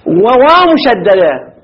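وواو drawn out slowly with the waw doubled and held; stressed doubled waw. Shown as a demonstration. Teacher telling students to mark the shadda, slow emphasis. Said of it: "شددوا إخواني الواو".

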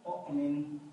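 أؤمن said with glottal stop then long u; pronouncing the example. Shown as a demonstration. A teacher modelling أؤمن to students. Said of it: "نقول مثلًا".

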